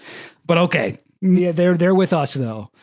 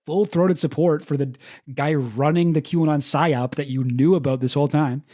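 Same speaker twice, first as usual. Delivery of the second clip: sarcastic thanks; 3 semitones higher than usual. Real, not acted. Mocking the clip's late confession.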